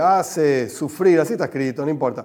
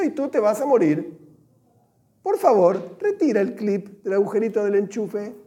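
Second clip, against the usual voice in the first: tender mother; 2 semitones higher than usual. Retold or imitated. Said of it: "Se expresó en forma de amor".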